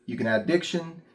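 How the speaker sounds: ordinary talk, nothing marked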